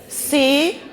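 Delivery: "si" held as a separate syllable; syllable sounded alone. Shown as a demonstration. Teacher counting syllables for the class, syllable sounded alone. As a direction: say "si" by itself, long and distinct. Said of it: "Como é que a gente separa".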